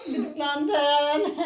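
giggling through the word; laughing. Real, not acted. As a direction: laugh while saying it. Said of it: "Güldün".

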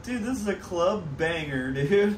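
loud, high burst of hype; hyped up. Real, not acted. Friend hyping up a club banger, loud and excited. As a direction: shout it out, totally hyped.

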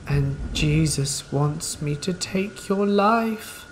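slow, eerie singsong threat; creepy sing-song. Retold or imitated. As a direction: drag it out slowly, menacing and sweet. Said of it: "creepy sing-song voice".

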